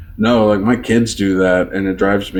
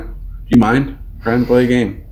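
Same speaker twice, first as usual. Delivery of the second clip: higher, mildly annoyed imitation; imitating mad kid; 4 semitones higher than usual. Dad mimics gaming son, mildly mad. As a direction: put on a kid's irritated protest, pitched up. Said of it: "he gets mad at me".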